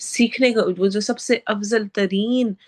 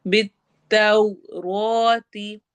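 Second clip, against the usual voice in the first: slow, drawn-out tajweed chant; Quran recitation; much slower than usual. Shown as a demonstration. Teacher recites verse for students, slow tajweed chant. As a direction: recite it slowly, stretching each sound. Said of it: "वाओ मद्दा के साथ".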